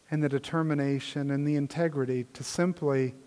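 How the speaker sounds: subdued closing prayer; pastoral prayer. Real, not acted. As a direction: address God reverently, phrase by phrase. Leads congregation in prayer.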